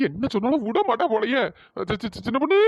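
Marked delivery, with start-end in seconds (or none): 1.9-2.6 a husband nervously stammering his wife's pet name. Acted. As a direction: stumble on சி- three times before சின்ன பொண்ணு. Husband stammers before the wife.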